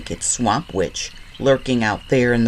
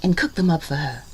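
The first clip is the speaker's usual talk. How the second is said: mother's voice; 4 semitones higher, faster than usual. Acted. Mother's instructions to Liza Lou.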